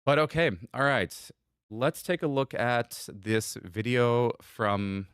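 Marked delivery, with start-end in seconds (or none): 1.7-5.1 movie trailer voice. Pretend. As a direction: narrate it like a film trailer. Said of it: "I just had that trailer voice come up".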